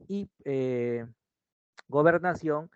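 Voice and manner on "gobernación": gobernación with weight on CIÓN; stress on last syllable. Shown as a demonstration. Teacher classing a word for students, gobernación stressed on CIÓN. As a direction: lean on the final syllable of gobernación. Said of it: "es aguda".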